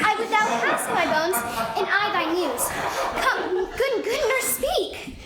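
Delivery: pleading through laughter; laughing. Acted. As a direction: coax her, giggling.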